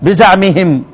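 "بزعمهم" with an a after the z: biza'mihim; fatha on zay. Shown as a demonstration. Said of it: "والباقون يقرؤون إيه؟". ("بزعمهم" بفتح الزاي)

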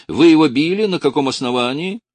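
loud, high demanding question; indignant outburst. A narrator's reading. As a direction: challenge him, fast. Indignant official confronts officer.

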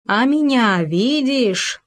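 high, very slow, menacing ghost voice. A narrator's reading. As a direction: draw it out to frighten. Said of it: "устрашающе вторил Хома".

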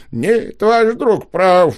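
медленно, высоко, через силу; выдавить слова сквозь слёзы; выдавил с трудом. A narrator's reading. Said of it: "с трудом выдавил мэр". (мэр с трудом признаёт правоту Елисея)

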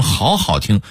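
"好好听" with a drawn first 好; Hong Kong-Taiwan wording. Shown as a demonstration. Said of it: "非得说成".

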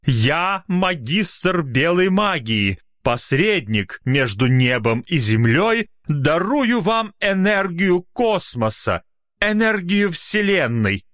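high, slow metallic tone. Acted. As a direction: intone it like a steely mage. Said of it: "металлические нотки". (металлический голос мага)

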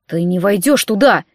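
terse order through gritted teeth; restrained, gritted-teeth prohibition. Acted. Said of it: "процедил Сет".

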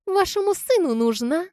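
high, sharp retort; high snarling comeback; snapping back. A narrator's reading. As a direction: bite back at the would-be mother-in-law. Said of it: "огрызнулась Лизка".

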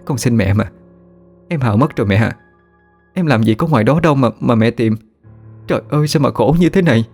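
a daughter begging her grieving mother, lightly tearful; sobbing plea. Acted. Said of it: "Vừa khóc nấc cô vừa nói".

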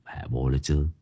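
muttering. A narrator's reading. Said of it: "miệng lẩm bẩm".

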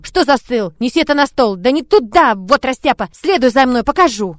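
loud, impatient scolding of a servant; exasperated, forceful commands; barking. A narrator's reading. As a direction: bark orders sharply. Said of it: "рявкнула на топочущегося слугу".

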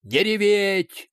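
slow shouted command; barked order. A narrator's reading. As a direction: bark it to stop the crying. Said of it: "уже спокойнее заорал он".

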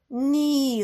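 loud, high cry of horror; anguished scream. A narrator's reading. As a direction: howl as the car hits. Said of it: "заволали п'ятеро друзів".

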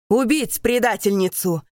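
loud raging order to kill; furious command. Acted. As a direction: spit out the death sentence in fury. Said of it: "кричит он".

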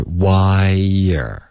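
"wire" drawn out slowly as the spoken "why are"; "wire" for "why are", slow and linked; reduced "why are". Shown as a demonstration. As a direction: stretch "wire", gliding from why into a weak er. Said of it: "实际发音就是wire".

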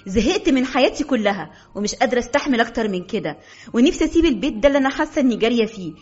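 exploding in anger. Acted. Wife choosing work over husband, bitter angry outburst. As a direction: let it all burst out. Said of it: "وأنا أنفجر فيه بطريقة لم".

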